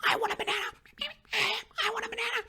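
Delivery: squeaky high cartoon monkey. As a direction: play a silly little monkey. Voicing a monkey.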